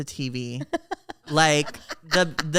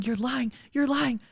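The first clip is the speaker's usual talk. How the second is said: high disbelief; 8 semitones higher than usual. Retold or imitated. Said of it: "I kept saying".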